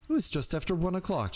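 put-on high, tear-stained girl voice; tearful girl. A narrator's reading. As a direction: speak high through tears.

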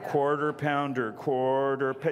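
drawn-out, halting order entry; slow mimicry. New girl behind the counter fumbling an order, slow mimicry. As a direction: mimic someone hunting for each key.

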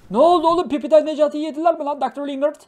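excited yell. Real, not acted. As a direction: shout it out in disbelief. Streamer yelling at game character.

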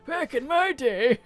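laughing through the words. Real, not acted. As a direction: giggle while saying it. Repeating chat's joke, laughing.

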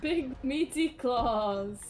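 slow, drawn-out cartoon line; SpongeBob quote. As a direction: savour each word like the cartoon. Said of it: "It's totally from SpongeBob".

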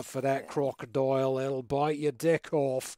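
comic put-on Kiwi accent; New Zealand accent. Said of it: "I'll do my New Zealand accent".

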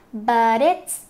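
slow "But it's", t running into it's; linked words. Shown as a demonstration. Teacher showing linking in "But it's", slow demonstration. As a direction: join "But it's" into one unit, slowly. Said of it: "nối".

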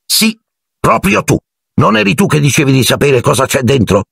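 high-pitched, lilting taunt; sing-song tone. A narrator's reading. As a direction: chant the accusation in a high lilt. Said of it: "con tono cantilenante". (tono acuto e cantilenante)

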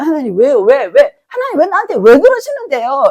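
mock-indignant pleading, why after why; complaining why to God. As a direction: press God with repeated whys. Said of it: "라면서".

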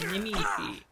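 high breathy whisper of Nemici. Acted. Repeats word, then whispers it.

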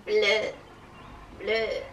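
slow-drawn witch impression; playful witchy drawl, kept low. Shown as a demonstration. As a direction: say it like a lightly voiced witch. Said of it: "Like a witch".

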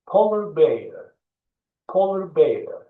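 polar bear said clearly, polar stressed; model pronunciation. Shown as a demonstration. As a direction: polar bear again for learners. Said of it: "iki kere daha okuyacağım".

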